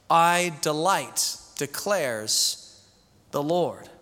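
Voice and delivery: slow, solemn scripture reading with long pauses. Acted. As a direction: lay each line out weightily, like a sermon text. Pastor reads Jeremiah aloud.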